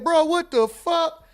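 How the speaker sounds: high, drawn-out "Bro, what the fuck"; baffled at his friend; slow disbelief. Retold or imitated. Comedian baffled at his friend, high slow disbelief. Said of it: "I said".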